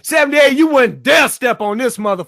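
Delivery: shouting a challenge across the stream; calling out. Real, not acted. Host shouting a dare at a guest, loud. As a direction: yell the dare at him.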